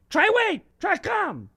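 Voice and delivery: high-pitched holler from the back porch. Acted. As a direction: yell the names out for the kids. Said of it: "would yell even more loud".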